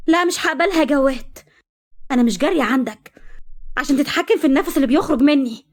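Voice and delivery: wife screaming her refusal at her husband; shouting at him. Acted. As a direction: throw it back at him in a high shout. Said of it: "وصرخت فيه".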